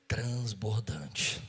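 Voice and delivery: very slow, loud and low; drawn-out emphasis. Real, not acted. Pastor lists God's measure of blessing, last word slow and heavy. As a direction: stretch the word out weightily. Climax of a quoted blessing list.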